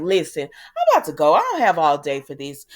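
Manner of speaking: loud, impatient mock announcement; antsy. Guests waiting on Dumas, retold impatience. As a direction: act out being fed up with waiting. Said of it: "everybody is getting antsy".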